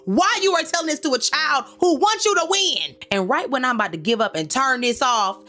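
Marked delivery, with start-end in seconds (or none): 0.1-3.0 high, incredulous telling-off; incredulous scolding. Retold or imitated. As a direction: scold him in a much higher voice. Scolding the character onscreen.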